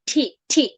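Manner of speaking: "ঠি" with tongue tapped at the gum; aspirated T. Shown as a demonstration. Teacher showing tongue placement, isolated aspirated T. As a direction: pop "ঠি" out in separate puffs. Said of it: "এখানে টিটা লাগাইয়া".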